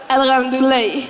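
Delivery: a lightly voiced Malian accent, falling and laughing; Malian reply. Malian man answering a greeting, lightly accented. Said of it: "Ça donne, euh".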